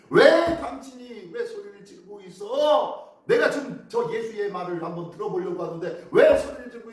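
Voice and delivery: scolding shout. Acted. Crowd reproaches the beggar for his noise, scolding shout. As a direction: demand an answer, drawing out the first words. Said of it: "소리를 칩니다".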